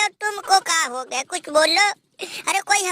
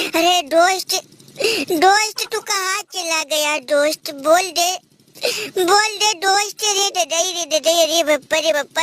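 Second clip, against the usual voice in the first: mock wailing. Mock mourning over a dead friend.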